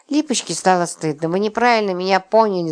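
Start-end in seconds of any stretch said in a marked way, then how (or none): none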